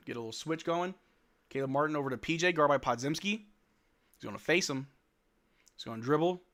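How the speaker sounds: live basketball play-by-play. Acted. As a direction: call the game as it happens.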